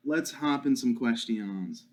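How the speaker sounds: slow "questions", stretched out; drawn out. Pretend. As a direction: stretch the line out playfully. Repeats the line slowly.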